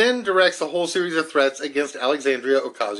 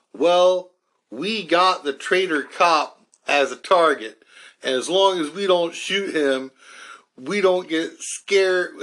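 reads the quote slipping into a Southern North Carolina twang; slowed, higher-pitched North Carolina drawl on the quoted threats; lightly put-on North Carolina accent while reading aloud; 5 semitones higher than usual. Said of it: "I slipped into my North Carolina accent".

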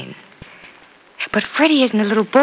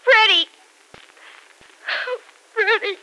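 calling out; 14 semitones higher than usual. Acted. Penny calls out for Freddie.

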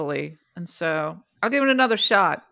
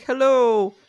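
mock pleading NPC; 6 semitones higher, 4 dB louder, slower than usual.

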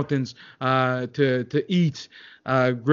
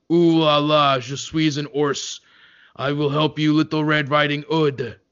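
put-on French accent; 3 semitones higher than usual. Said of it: "the French bear was like".

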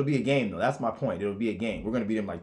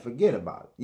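sly and easy; 5 dB louder than usual. Shown as a demonstration. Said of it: "nigga used to be like".

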